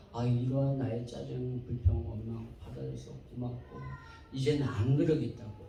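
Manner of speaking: low, subdued, humbled promise; quiet, apologetic thanks; retold apology. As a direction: re-enact a contrite husband speaking softly. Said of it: "너무너무 미안해가지고".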